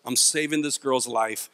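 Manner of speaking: low, slow mock-heroic vow; heroic resolve. Man psyching himself up to save a girl, low slow resolve. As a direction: steel yourself like a movie hero.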